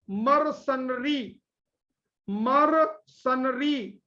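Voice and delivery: Mercenary said slowly, every syllable clear; drilled word. Shown as a demonstration. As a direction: stretch out Mercenary for the class. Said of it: "teacher drilling the word". (Mercenary को धीरे धीरे साफ़ बोलना)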